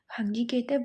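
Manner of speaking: ordinary delivery, nothing marked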